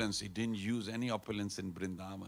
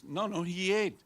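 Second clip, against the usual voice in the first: put-on insistent boy; 7 semitones higher than usual. Boy insisting to his mother.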